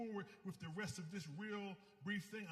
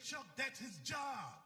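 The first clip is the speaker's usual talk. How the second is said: slow, raised firm voice; firm retold sponsor; 5 semitones higher, slower than usual. Sponsor correcting him on phone.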